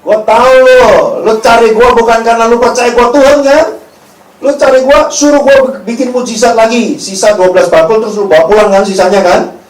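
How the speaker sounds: loud, brash Betawi street talk; high-energy Betawi rebuke; Jesus as a Betawi. Acted. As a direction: tell them off like a blunt Betawi local. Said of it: "Kalau Yesus orang Betawi ngomongnya gitu".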